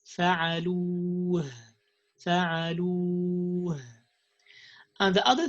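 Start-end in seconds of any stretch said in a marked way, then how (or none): 0.0-3.8 فَعَلُوا said simply, no push; just say فَعَلُوا; plain correct. Shown as a demonstration. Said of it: "We just say it".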